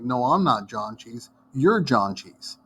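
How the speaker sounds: put-on slow, childish comeback; sulky schoolyard reply, drawn out; slow mock playground retort. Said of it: "they would say something like".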